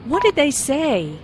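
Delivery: "say" emphasized, then falling; what-question with falling tune on "say"; emphasis on SAY. Acted. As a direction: stress "say" and let it drop. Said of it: "is emphasized".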